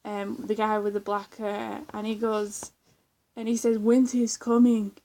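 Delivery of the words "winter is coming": loud, mock-dramatic proclamation; lightly imitated portentous warning; Game of Thrones impression. Vlogger quoting a guy's Game of Thrones impression, loud mock warning. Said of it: "he's doing that Game of Thrones impression".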